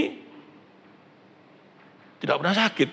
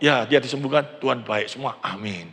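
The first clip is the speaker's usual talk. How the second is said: mock pious amen; 5 semitones lower, 5 dB quieter than usual. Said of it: "Pada waktu ngomong".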